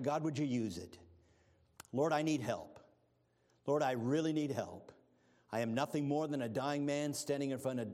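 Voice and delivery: earnest pulpit prayer; public prayer. Acted. Evangelist prays for church and pastor, earnest pulpit prayer. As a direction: pray over the church before the message. Preacher leads congregation in prayer.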